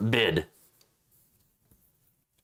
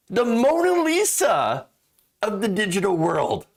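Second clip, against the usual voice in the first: incredulous; 4 semitones higher than usual. Real, not acted. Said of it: "I'm floored".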